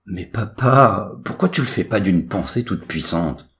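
high-voiced complaint to father; pleading son. A narrator's reading. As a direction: protest like a put-upon teenager.

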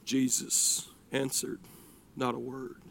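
low, very soft, halting words; hushed narration. A narrator's reading. Preacher telling how Jesus stayed silent, hushed. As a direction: drop almost to nothing, pausing between phrases. Unanswered plea, hushed contrast.

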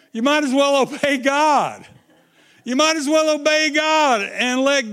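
laughing. Real, not acted. Laughs while exhorting congregation.

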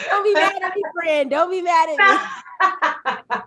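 high, playful laughing apology; laughing plea. Real, not acted. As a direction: beg off through a laugh. Jokingly apologising to friend.

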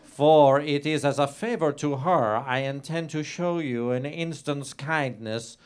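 hammed-up dramatic reading aloud of a lurid novel. Comedian reading his own racy novel to the host, hammed-up and grand. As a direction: read it like a grand melodrama.

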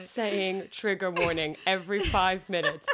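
half-laughing reading of a message; reading it out, cracking up; reading through laughter. Retold or imitated. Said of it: "they've started by saying".

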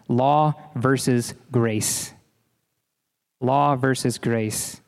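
"law versus grace" said slowly, each word weighted; slow emphatic phrase. Shown as a demonstration. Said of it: "Three words".

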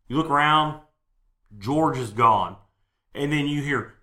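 suspenseful scene-setting with pauses; game master narration. Acted. Game master telling players a companion is gone, suspenseful narration. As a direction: let the dread build line by line.

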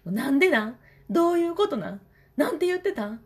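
put-on high, whiny child voice pressing for answers; pestering son. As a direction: mimic a six-year-old badgering his mom. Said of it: "みたいな、もう、もうすごくて".

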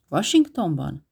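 repeating the word in mild surprise; surprised question. Acted. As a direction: echo Washingtonban as a startled question. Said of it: "Ismételte Jill".

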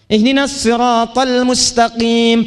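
siratal with emphatic S, slow; slow chant with shad; recitation with shad. Shown as a demonstration. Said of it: "Pakai shad".

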